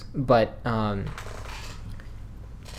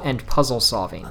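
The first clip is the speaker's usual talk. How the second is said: whispering. Acted. Hushed hype before nominees.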